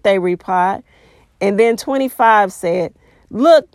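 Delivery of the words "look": a sudden louder call; shout. A narrator's reading. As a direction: call it out to the crowd. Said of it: "Nebuchadnezzar shouted".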